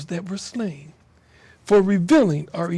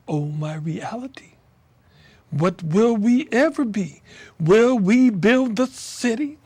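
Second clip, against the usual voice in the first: poem recital. Acted. Poet reading a rain poem aloud, declamatory. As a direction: let each line ring like a lament.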